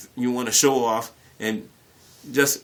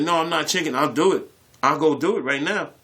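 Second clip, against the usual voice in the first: higher, bold protest; mock defiant; 5 semitones higher, 4 dB louder than usual. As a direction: puff up to prove you're no chicken. Defiant denial of being chicken.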